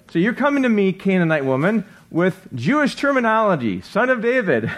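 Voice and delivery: mock incredulous. Jesus challenging the Canaanite woman's Jewish words, mock incredulous.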